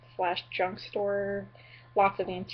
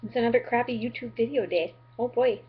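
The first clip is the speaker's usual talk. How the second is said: put-on goofy overdone Midwestern accent, louder; exaggerated Midwestern accent; 3 semitones higher, 5 dB louder than usual. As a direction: ham up the Minnesota accent on a bright greeting. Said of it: "have fun exaggerating the Midwestern accent".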